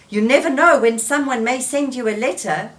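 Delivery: eager coaxing. Acted. Frog persuading Toad.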